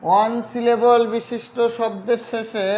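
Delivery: slow, stretched words for writing along; slow dictation. Real, not acted. Teacher dictating the superlative rule to students, slow dictation. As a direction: dictate phrase by phrase with long pauses.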